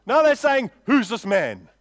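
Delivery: loud, slow outburst imitating the crowd; impassioned preaching. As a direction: cry it out in indignant disbelief. Preacher contrasts the crowd's cries.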